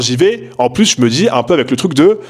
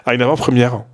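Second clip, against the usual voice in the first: Parisian accent. Real, not acted. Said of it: "j'arrive pas à le dire normalement".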